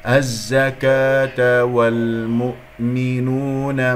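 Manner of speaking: very slow recitation with held vowels; measured Quran recitation; tajweed recitation. Shown as a demonstration. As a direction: recite slowly, letter by letter. Recitation model in tajweed lesson.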